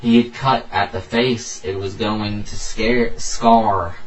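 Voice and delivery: storyteller reading aloud, firmly stressed; story narration. A narrator's reading. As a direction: read it out as a dramatic tale. Reads own story aloud.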